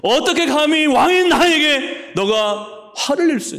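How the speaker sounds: high, loud, slow indignant outburst; furious king. Acted. Angry king shouting down the priest, high and slow. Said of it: "화를 내는 거예요".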